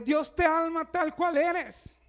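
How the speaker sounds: slow, drawn-out quoting of the slogan; mocking the easy church line; quoted slogan. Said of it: "O te dice".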